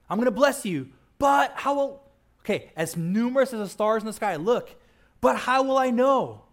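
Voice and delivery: questioning Abraham. Retold or imitated. Abraham arguing with God.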